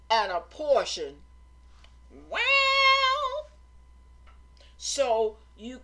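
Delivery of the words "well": long high held "well"; drawn-out wail. Real, not acted. Preacher to congregation after a point, long loud high "well".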